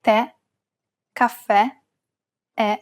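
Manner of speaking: "Tè, caffè, è" with a stressed open E. Shown as a demonstration. Teacher demonstrates grave accent on E, "Tè, caffè, è" with open stressed E. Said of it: "pronounce it as an open E".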